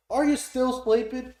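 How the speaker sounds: loud, high, drawn-out redneck shout. Retold or imitated. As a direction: holler at a sleeping buddy, redneck style. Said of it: "this redneck pulls up".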